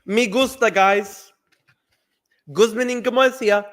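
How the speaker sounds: a put-on Spanish-flavoured Nick Fuentes accent. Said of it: "Do a Nick Fuentes accent".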